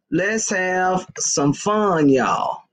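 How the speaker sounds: slow, low and stretched; slow drawn-out invite. Real, not acted. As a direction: draw each word out lazily. Slow drawn repeat after ooh.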